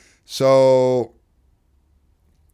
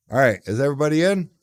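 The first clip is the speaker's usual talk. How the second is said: excited call-out; 5 semitones higher, 7 dB louder, faster than usual. Real, not acted. Calling out to chat.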